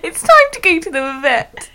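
high-pitched mock-sinister kid voice; joining in as the little psycho, pitched high; tiny little psychopath. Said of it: "tiny little psychopath".

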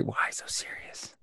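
hushed Joker whisper. Pretend. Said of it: "Why are you whispering?".

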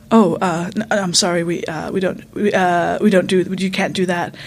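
hesitant, stumbling waiter's refusal; awkward apology. Retold or imitated. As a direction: falter apologetically through a retold brush-off. Retold waiter's awkward, stammered refusal.

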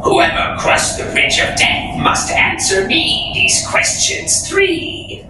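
put-on very high, rasping old keeper; bridge keeper voice. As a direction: shriek like an ancient gatekeeper. Bridge keeper questions knight.

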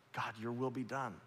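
quiet surrender to God; soft prayer. Acted. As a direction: say it gently, yielding.

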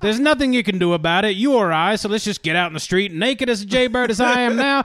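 newsboy voice. Acted. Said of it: "He threw that good newsboy voice out there".

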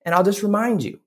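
high, coaxing storybook voice; wood carver. Acted. Wood carver invites Punchinello to visit daily, high coaxing voice. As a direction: invite him gently in a high voice. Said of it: "And the wood carver goes".

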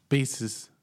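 hushed, spooky whisper of the name; dramatic whisper. Acted. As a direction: whisper it like a dark secret. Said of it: "dramatic whispered reveal".

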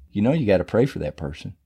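lightly voiced, low-key nudge; inner voice of conscience. The Holy Spirit nudging an angry man to pray, understated. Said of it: "this thought comes in my head".

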